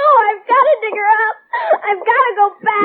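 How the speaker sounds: fast, tearful insistence; crying protest. Acted. Daughter refuses to lie down, fast and crying. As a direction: push back hard through tears. Girl resists being sent bed.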